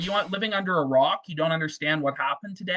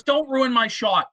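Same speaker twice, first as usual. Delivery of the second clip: mock angry order; 6 semitones higher, 3 dB louder, slower than usual. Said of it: "he goes".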